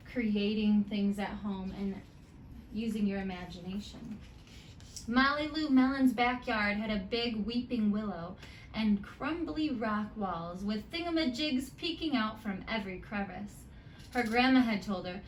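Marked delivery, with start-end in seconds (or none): 5.1-15.2 put-on lively read-aloud to children; story narration. A narrator's reading. Teacher reading a picture book to her students, lively storytime.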